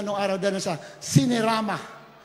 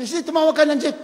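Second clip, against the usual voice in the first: decisive instruction; 6 semitones higher, 6 dB louder than usual. Acted. Pastor orders a jeep, acted.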